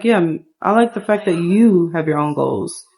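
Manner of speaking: lightly voiced man, close to own pitch; man on a date. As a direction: answer as the man, in an everyday register. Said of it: "He's like".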